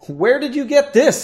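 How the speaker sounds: high, loud amused surprise; incredulous, lightly amused outburst; amused, laughing question. A narrator's reading. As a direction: ask it loudly as if tickled and taken aback. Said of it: "he laughed".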